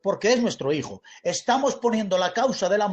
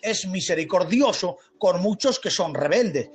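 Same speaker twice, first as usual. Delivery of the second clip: emphatic, raised, drawn-out sermon delivery; forceful preaching; 3 semitones higher than usual. Real, not acted. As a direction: preach it with rising fervour.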